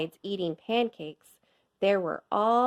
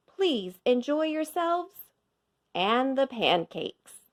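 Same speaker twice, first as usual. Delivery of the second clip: higher, cheery sign-off; mayor's closing; 6 semitones higher than usual. A narrator's reading. Mayor ends his speech, cheery and higher. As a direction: wrap up the speech brightly, higher. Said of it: "and finally he said".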